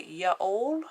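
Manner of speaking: "ya all" with an English "all", rising; English-accented y'all. Shown as a demonstration. English vlogger trying her American friend's word, "ya all" in English vowels. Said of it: "It just sounds really wrong".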